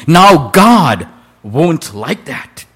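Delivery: a lightly voiced mother, slow and warning; mild mock-stern mother, very slow. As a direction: draw out a gentle warning to a naughty child. Mother scolding boy in story.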